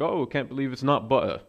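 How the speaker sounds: rough attempt at a British accent. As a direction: read a commercial line with an amateur British lilt. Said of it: "that's a British accent".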